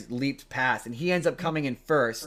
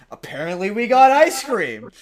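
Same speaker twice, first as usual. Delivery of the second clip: deadpan jab; 6 semitones higher, 11 dB louder than usual. Retold or imitated. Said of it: "he keeps going".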